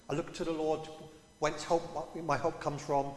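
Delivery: lightly theatrical verse reading, delivered as a statement; a touch of stage-verse formality; mock Shakespearean recital. Shown as a demonstration. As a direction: recite it like a line from a play. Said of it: "We turn it into a Shakespeare play".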